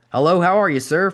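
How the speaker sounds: loud, high greeting with swagger; Ric Flair voice. Retold or imitated. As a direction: boom out a showman's hello.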